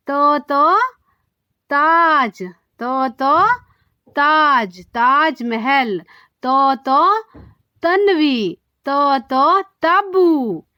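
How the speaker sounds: तो chanted twice before each word, with dental t; dental T drill. Shown as a demonstration. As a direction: model तो, तो, then the example word, drawn out. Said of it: "तो की sound". (तो की दंत्य ध्वनि दोहराकर शब्द बोलें)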